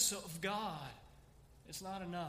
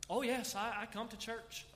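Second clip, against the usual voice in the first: higher, hammed-up boasting churchgoer; mock self-righteous boast; 4 semitones higher than usual. Preacher mocking a churchgoer bragging to God, hammed-up. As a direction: parody a proud churchgoer listing deeds, laughing at the end.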